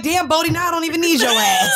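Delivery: laughing mock shout at the cat. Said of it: "I was like".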